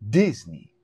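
Disney said in a lightly put-on, unnamed accent; jokey put-on accent. Joking to his co-host that Orlando's headed to Disney, in a mild mock accent. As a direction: ham up a silly accent saying Disney. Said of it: "What accent was that?".

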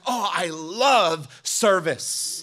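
lightly voiced gushing newcomer, slow; gushing churchgoer friend. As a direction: gush over the service like a starry-eyed visitor. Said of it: "that friend out to church".

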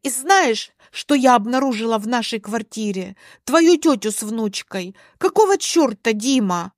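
acted indignant heat; angry confrontation. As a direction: confront him, demanding answers. Alina confronts husband on phone.

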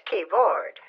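KEYBOARD drawn out slowly, ending in a clear BOARD; correcting pronunciation. Shown as a demonstration. Caller correcting the agent's word keyboard, slow clear pronunciation. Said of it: "It's pronounced board".

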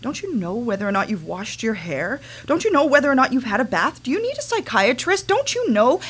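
mother's mocking interrogation, rising; retold scolding. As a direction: berate a child, building to a near yell. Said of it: "looking down at me and said".

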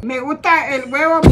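deliberate read-aloud line; careful reading. Shown as a demonstration. Mother reading to camera on request, careful reading. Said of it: "léelo lento y mirando la cámara".

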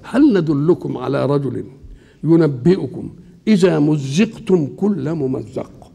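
slow measured chanting of the verse; Quranic recitation. Acted. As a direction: recite it slowly like scripture.

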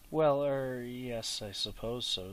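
a hesitant, fumbling stammer. Acted. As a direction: trip over the words, caught out and evasive. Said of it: "stammered Bilbo".

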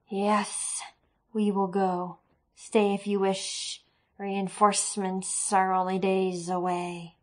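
slow, cold creature voice; calm and unhurried, coldly; eerie creature. Acted. Eerie creature speaks calmly.

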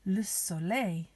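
"Le soleil" said slowly in French; French pronunciation. Shown as a demonstration. Teacher to children learning the sun in French, "Le soleil" pronounced slowly. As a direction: model "Le soleil" slowly, ending "-lay". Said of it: "Some of the words in French".

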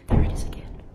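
whisper. Real, not acted. Hears the banging again.

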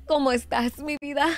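hammed-up sultry Spanish accent, mock flirty; mock seductive Spanish-accented greeting; horrendous put-on voice. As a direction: lay on a cheesy Latin lover accent for the chat. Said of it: "doing such a horrendous voice".

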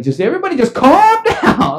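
high, agitated appeal for calm; frantic plea. Retold or imitated. Homeowner to police and Calvin, frantic plea. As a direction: plead for calm while sounding panicked.

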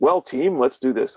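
imitating a chirpy manager rallying the troops; mock team-leader cheer. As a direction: ham up the boss's peppy team call. Mimicking colleague who says team.

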